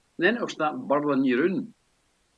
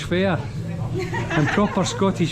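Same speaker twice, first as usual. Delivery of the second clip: laughing; 5 semitones higher than usual. Real, not acted. Joking about the pub's locals.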